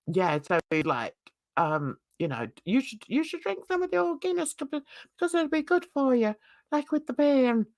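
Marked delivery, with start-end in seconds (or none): 2.7-7.7 Irish lilt. Retold or imitated. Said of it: "He had a nice Irish lilt".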